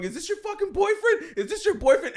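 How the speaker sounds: high-pitched mock outraged questioning; imitated yelling. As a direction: imitate a yelled, disbelieving interrogation. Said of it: "Tim's yelling".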